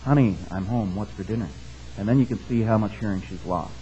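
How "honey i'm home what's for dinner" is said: low, softened voice; hushed line, as if close to her ear; mock whisper. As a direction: imitate a whisper, soft and low, still voiced. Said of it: "whisper in her ear".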